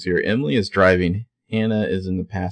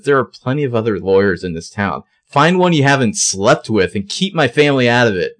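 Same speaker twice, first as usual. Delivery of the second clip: loud angry yell, higher; 4 semitones higher, 5 dB louder than usual. Retold or imitated. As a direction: shout it so everyone hears. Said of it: "She's, like, yelling this".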